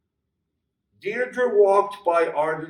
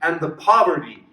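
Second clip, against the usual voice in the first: a mild plea to a returned lover; pleading. Acted. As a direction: beg him to understand, voice raised. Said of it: "Deirdre cried out".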